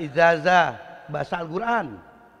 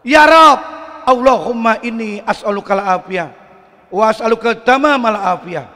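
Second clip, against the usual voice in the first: doa bahasa Arab; 5 dB louder than usual. Retold or imitated. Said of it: "baca doa pakai bahasa Arab".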